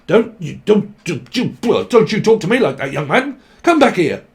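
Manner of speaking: mock telling-off, building to a sharp command; acted indignant scolding. Scolding someone walking off mid-argument, indignant.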